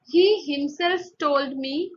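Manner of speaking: "himself" slow and deliberate; emphasis on HIMSELF. Shown as a demonstration. Teacher showing an emphatic pronoun, slow stress on "himself". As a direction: lean slowly on the word "himself". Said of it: "put emphasis on the particular noun".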